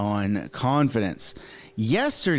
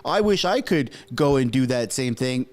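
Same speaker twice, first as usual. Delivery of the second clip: higher, indignant mock objection; mocking a critic; 3 semitones higher than usual. A host to his viewers, a mock indignant critic. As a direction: parody the outraged critic. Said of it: "that's not me saying".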